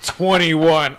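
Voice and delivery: mock-confident businessman. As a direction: answer like a sure dealer. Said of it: "All confident".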